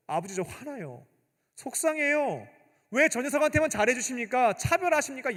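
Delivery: a wronged son confronting his father; protesting son. Retold or imitated. Eldest son confronting his father, hurt and protesting. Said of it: "따져야죠".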